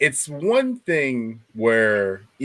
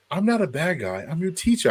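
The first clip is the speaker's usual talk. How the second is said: higher, lightly voiced teacher; mock teacher; 7 semitones higher, 5 dB quieter than usual. Teacher protesting to her pupil in a higher voice. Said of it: "And she goes".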